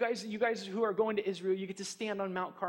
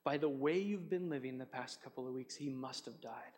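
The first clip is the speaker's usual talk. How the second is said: wife's gentle rebuke; 6 semitones lower, 8 dB quieter than usual. Retold or imitated. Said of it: "And she said".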